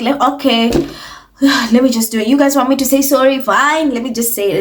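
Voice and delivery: sigh, then give the apology like it's a chore; mock sorry, dripping sarcasm; sarcastic. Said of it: "adds tons of sarcasm".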